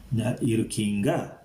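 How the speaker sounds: "Na irukkinga" asked as a question; asking tone. Shown as a demonstration. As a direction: put an asking tune on "irukkinga". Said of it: "that asking tone in that".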